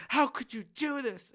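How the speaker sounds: high-pitched, drawn-out imitation of tearful outrage; mock crying. Imitating a crying protester confronting him, mock tearful wail. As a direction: wail it slowly in a put-on high voice. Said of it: "she's, like, crying".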